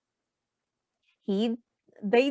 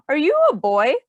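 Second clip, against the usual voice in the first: put-on louder, bossy boy; lightly voiced bossy boy; Xavier dismissive; 3 dB louder than usual. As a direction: challenge her like a proud boy. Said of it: "replied Xavier".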